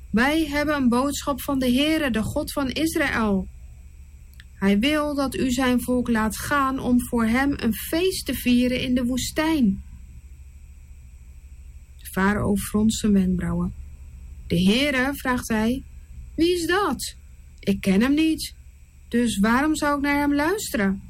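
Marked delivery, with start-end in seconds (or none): 0.1-9.8 lightly voiced Moses, a bit higher; a hint of a solemn messenger; earnest Moses. Moses delivering God's message to Pharaoh, lightly voiced. 16.3-21.0 lightly voiced king, higher and questioning; a hint of a dismissive ruler; scornful Pharaoh. Pharaoh brushing off Moses and Aaron, mildly scornful.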